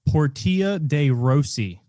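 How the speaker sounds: PORTIA DE ROSSI as por-TEE-a day RO-see; slowly over-enunciated foreign-style Portia de Rossi; over-careful pronunciation. Shown as a demonstration. Host testing co-host, slow por-TEE-a day RO-see for Portia de Rossi. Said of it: "see how you pronounce this one".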